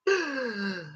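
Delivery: long, high falling squeal; high drawn-out squeal. Acted. Streamer imagines hundreds ready to talk, high squeal. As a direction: squeal as if overwhelmed. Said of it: "And I'm like".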